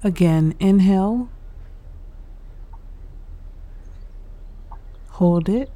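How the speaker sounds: unhurried meditation guide with long pauses; guided meditation. Real, not acted. Host guiding listeners through breathing and stretches, calm meditation delivery. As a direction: lead them calmly through each breath, leaving space.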